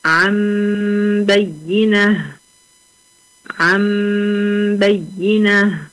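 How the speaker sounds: عن بينة drawn out with the نون becoming a nasal ميم; teacher giving a two-word example; slow recitation. Shown as a demonstration. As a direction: recite عن بينة slowly, humming the ghunna. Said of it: "في كلمتين".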